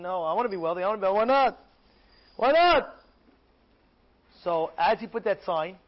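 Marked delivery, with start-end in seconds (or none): 0.0-2.9 the crowd grabbing at easy riches; eager crowd. Acted. Crowd voiced eager to get rich, rising to a cry.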